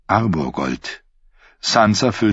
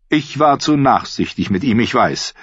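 rueful; 5 semitones higher than usual. Acted. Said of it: "sagte Petter Baelish reumütig".

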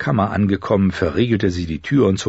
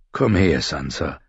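not unkindly; 4 semitones lower than usual. A narrator's reading. Father calls his daughter over, gently. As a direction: beckon her gently, letting the voice sink. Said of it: "sagte er nicht unfreundlich".

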